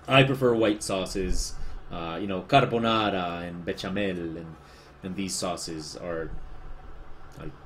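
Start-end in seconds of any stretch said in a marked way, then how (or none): 2.4-4.4 Spanish-accented food names; Spanish pronunciation. Real, not acted. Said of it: "just saying them in Spanish".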